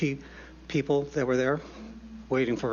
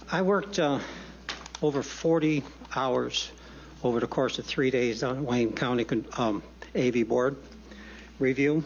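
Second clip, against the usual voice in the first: breathless from running; winded, catching breath. Real, not acted. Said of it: "I'm out of breath".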